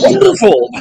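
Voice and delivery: high, loud, dripping sarcasm; sarcastic. Retold or imitated. Mock cheer when everything goes wrong, sarcastic. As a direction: say it like it's anything but wonderful.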